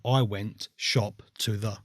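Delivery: slow, word-by-word scrambled sentence; muddled word order. Shown as a demonstration. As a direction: lay out "shop to the" slowly, word by word. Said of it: "I would write".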